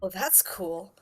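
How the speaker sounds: soft, stunned understatement; quietly overwhelmed, acted. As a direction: barely get it out while still processing. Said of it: "that's the only thing that she can really get out".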